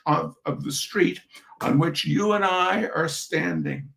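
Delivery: measured reading-aloud voice for an audience; story narration. Acted. Reading a humorous essay to an audience, storyteller narration. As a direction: read the essay out with dry humor.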